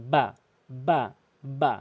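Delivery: বা with the inner lips pressed together; wet-lip b. Shown as a demonstration. Teacher showing lip placement, clean pressed বা. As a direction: close the moist part of both lips for বা. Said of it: "ভেজা অংশ মিলিত করে".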